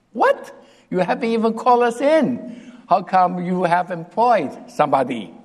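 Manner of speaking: shocked crowd demanding answers; indignant what. Retold or imitated. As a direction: protest like a jilted applicant. Crowd protests the hiring.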